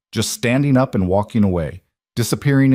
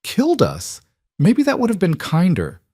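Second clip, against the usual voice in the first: higher, bleak bitter irony; 10 semitones higher than usual. Acted. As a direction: say it like a dark joke. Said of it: "Isabella laughed bitterly".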